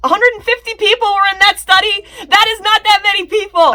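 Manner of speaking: high, loud disbelief; incredulous outburst. Real, not acted. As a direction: scoff at how small the study is. Incredulous rant about small study.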